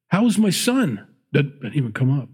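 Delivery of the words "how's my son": concerned father. Retold or imitated. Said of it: "Should have said".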